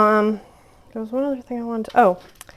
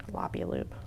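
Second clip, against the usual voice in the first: deep silly voice; 13 semitones lower, 12 dB quieter than usual. Shown as a demonstration. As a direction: drop into a very low, quiet voice. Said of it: "a floppy loop".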